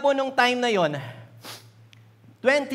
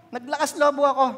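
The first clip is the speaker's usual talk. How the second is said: laughing; 4 semitones higher, 5 dB louder than usual. Real, not acted. Laugh heard on line.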